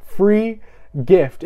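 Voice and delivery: spaced out with a pause between the words; slow call-and-response. Real, not acted. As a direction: lead the crowd, one word at a time. Leading congregation to repeat words.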